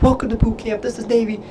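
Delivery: high-pitched mock drill-instructor yell; drill chief screaming. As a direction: bark it like a chief welcoming recruits. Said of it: "they're screaming at you".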